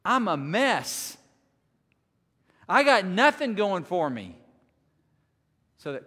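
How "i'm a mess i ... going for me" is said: Paul's exasperated cry. Retold or imitated. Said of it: "this is Paul going".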